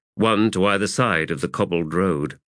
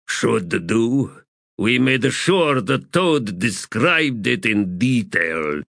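matter-of-fact sapper; 4 semitones higher, slower than usual. Acted.

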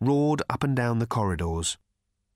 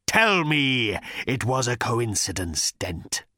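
menacing challenge; slower than usual. Acted. Voice threatens Arthur in dark.

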